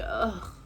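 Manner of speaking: low "ugh" of annoyance; reluctant groan. Retold or imitated. She reacts to her date's complaint, reluctant groan. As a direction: groan as if put upon.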